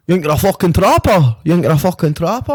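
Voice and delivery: imitating a rowdy stranger's taunt; mock aggressive challenge. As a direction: imitate a stranger picking a fight. Stranger confronting him mid-performance.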